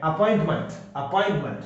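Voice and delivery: अपॉइंटमेंट with a light "munt" ending; weak vowel. Shown as a demonstration. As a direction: reduce the last vowel of अपॉइंटमेंट to "uh". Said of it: "यहां मैं हल्का ए और टे". (अपॉइंटमेंट का आख़िरी स्वर हल्का, "मंट")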